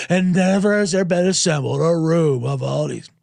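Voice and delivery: hammed-up awards-show narrator mocking the SNL special; pompous announcer parody. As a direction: puff it up like a gala host.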